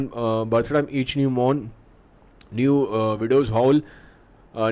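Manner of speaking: slow, deliberate reading of verse; Shakespeare recitation. Acted. Teacher reading Malcolm's line to the class, slow recitation. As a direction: read the old lines out slowly, word by word.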